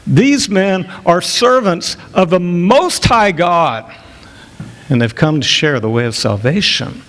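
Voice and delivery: a girl mocking the apostles. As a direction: sneer it, drawing out each word. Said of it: "in a very mocking tone".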